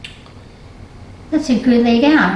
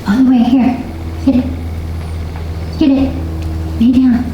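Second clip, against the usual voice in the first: firm command; 2 semitones higher than usual. Real, not acted. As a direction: tell the dog firmly to lie down. Commanding the dog.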